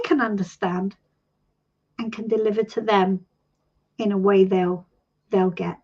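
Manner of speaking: calm, reverent invocation spoken aloud; quoted prayer. Shown as a demonstration. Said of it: "I say".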